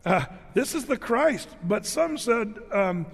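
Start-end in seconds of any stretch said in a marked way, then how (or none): 0.5-1.5 higher, bright declaration of faith; a lifted declaration of faith; emphatic declaration. Acted. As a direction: announce it like the right answer. Quoting those who got it right.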